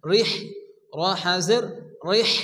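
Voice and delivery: রিহ with a breathy হ pushed out. Shown as a demonstration. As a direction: let air out on the হ of রিহ. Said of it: "মুখ দিয়ে বাতাস বার হবে".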